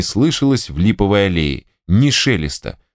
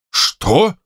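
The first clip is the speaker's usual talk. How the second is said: frowning; 9 semitones higher than usual. Acted. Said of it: "спросил генерал, начиная хмуриться".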